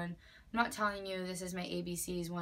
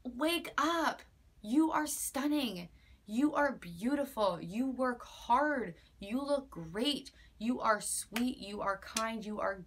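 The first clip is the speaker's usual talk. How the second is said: higher, emphatic, slow encouraging calls; pep talk; 3 semitones higher, slower than usual. Pretend. Urging friends who doubt themselves, slow emphatic pep talk. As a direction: shake a friend awake with praise. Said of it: "I just wanna be like".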